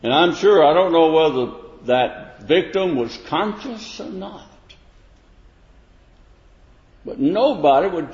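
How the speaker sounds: high, loud searching questions; preaching at full force. Acted. Preacher challenging listeners, loud rising sermon voice. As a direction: press the questions on the congregation.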